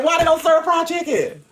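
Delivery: complaining on the cruise ship in mock disbelief. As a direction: ask like you can't believe there's no fried chicken. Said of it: "And I'm looking like".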